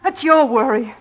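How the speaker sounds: loud defiant shouting; furious. Acted. Girlfriend demanding her money, shouting furiously. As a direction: yell back that you won't be silenced.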